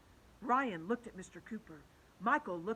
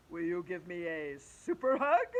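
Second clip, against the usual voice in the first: reasoning teacher; 3 semitones lower, 5 dB louder than usual. Acted. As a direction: explain it patiently like a big teacher. Teacher asks for hug.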